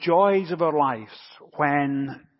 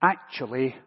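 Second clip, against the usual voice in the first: put-on southern accent; 3 semitones lower, 3 dB quieter than usual. Little girl correcting the pastor, lightly mimicked Southern accent. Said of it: "in a very strong southern accent".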